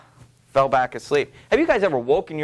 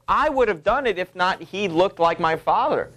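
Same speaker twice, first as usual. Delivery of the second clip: Lady Macbeth; 5 semitones higher than usual. Acted. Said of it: "And she even says that".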